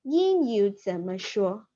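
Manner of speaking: "英语怎么说" repeated slowly. Shown as a demonstration. Teacher repeating "英语怎么说" for the class. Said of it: "It means that".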